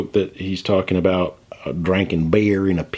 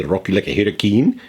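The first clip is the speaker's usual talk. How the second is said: "Rock you like a hurricane" sung with a hammed-up country twang, louder; mock country twang; 3 semitones higher, 4 dB louder than usual. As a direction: imitate a country singer drawling "hurricane". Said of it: "He didn't say".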